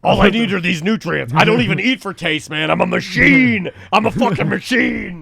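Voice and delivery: pumped-up bro boast; gym bro. Retold or imitated. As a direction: brag like a muscle-head. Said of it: "talking like Hogan".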